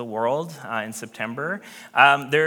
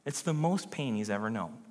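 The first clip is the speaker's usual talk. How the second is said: quieter repeat stressing most; softer emphasis; 4 semitones lower, 8 dB quieter than usual. Real, not acted. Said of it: "repeat for emphasis".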